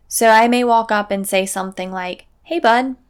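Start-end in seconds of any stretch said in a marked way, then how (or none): 2.4-3.0 calm matter-of-fact call. Shown as a demonstration. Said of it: "Notice my tone doesn't deviate".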